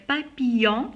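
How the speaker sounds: "Papillon" with ll gliding as y; "Papillon" with no l sound, rising at the end. Shown as a demonstration. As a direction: say "Papillon" as pa-pi-yon. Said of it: "je la prononce comme Y".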